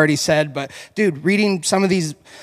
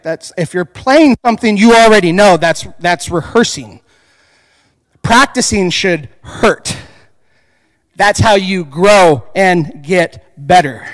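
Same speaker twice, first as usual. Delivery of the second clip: teacher explaining; 6 dB louder than usual. Retold or imitated. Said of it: "He's like".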